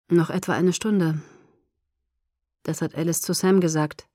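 leicht gedämpft und düster gesprochen. A narrator's reading. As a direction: mit einem Anflug von Schwermut antworten. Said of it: "sagte Edward düster". (ein wenig düster)

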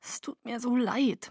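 soft, high, contrite murmur; small, hushed voice; murmured apology. A narrator's reading. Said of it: "murmelte ich".

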